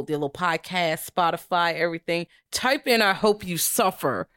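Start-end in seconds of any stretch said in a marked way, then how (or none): 2.5-4.3 talking through clenched teeth; slow words through closed teeth; jaw wired shut. Real, not acted. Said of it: "I'm talking through my teeth".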